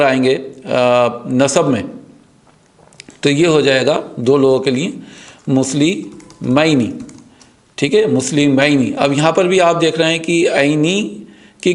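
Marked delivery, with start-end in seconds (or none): 5.5-6.9 slow demo. Shown as a demonstration. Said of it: "very slow drawn-out demo".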